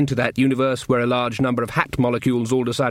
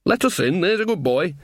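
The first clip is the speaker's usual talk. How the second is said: a hint of a cheery old mum calling up; Sean's mum; 5 semitones higher than usual. Mother calls up to her son on guard, lightly voiced old woman. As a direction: call up to her son, homely and firm.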